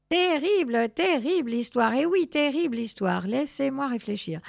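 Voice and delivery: high, loud cry of dismay; lamenting learned cat. Acted. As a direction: fret aloud over a terrible tale.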